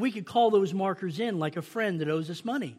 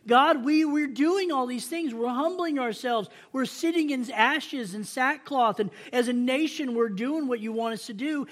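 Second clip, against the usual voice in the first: pleading people crying out; 4 semitones higher than usual. Retold or imitated. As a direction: whine at God that he isn't listening. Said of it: "They're crying out".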